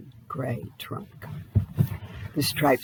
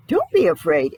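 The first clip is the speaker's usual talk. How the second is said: put-on called out louder to the children; shout; 5 dB louder than usual. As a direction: call out so the hiding children hear. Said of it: "Eddie shouted".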